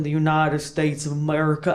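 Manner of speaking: lightly hammed-up American twang; mock-patriotic American accent; put-on American accent. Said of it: "I don't talk like that".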